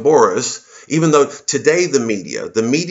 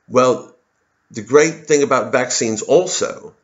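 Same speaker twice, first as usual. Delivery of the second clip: mock Matt Hancock; slower than usual. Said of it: "I'm paraphrasing".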